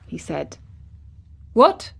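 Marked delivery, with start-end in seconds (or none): 1.5-1.9 high, loud burst of surprise; startled boy's exclamation; exclaimed. A narrator's reading. Colin learns someone came into the garden, astonished. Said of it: "exclaimed Colin".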